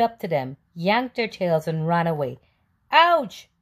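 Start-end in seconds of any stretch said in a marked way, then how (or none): 2.9-3.5 high, loud cry of pain; horse's yell. A narrator's reading. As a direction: yelp as your tail is yanked. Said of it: "yelled the horse".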